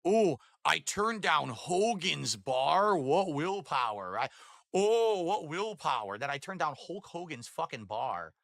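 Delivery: slow, drawn-out sarcastic brag; mock boasting. Co-host parodies someone bragging of turning down a bar, lightly sarcastic. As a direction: stretch the words in mock self-admiration. Mock self-congratulation in quoted voice.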